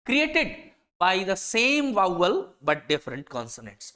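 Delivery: slow, deliberate dictation pace; slow definition reading. Shown as a demonstration. Teacher reads a definition so students can copy it, slow dictation. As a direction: read it out word by word for students to note down. Reads dictionary entry slowly.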